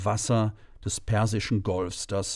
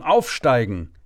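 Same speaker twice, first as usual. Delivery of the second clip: louder urgent repeat of the order; narrated yell into the headset; retold shout; 6 dB louder than usual. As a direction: bark it harder the second time. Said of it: "schrie ich in mein Mikrofon".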